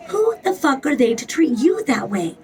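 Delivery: unvoiced whisper of outrage; whispered indignant repeat. Shown as a demonstration. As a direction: hiss the same line under your breath. Repeats the line, then whispers it.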